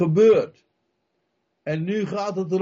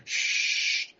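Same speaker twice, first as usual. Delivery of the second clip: long hushing hiss; shushing; 6 dB quieter than usual. Retold or imitated. People to the calling man, shushing. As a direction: shush someone who is too noisy. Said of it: "Mensen zijn soms bang om te roepen".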